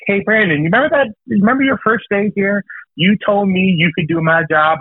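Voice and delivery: mock the boss lady teasing; imitating coworker. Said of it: "And she is like".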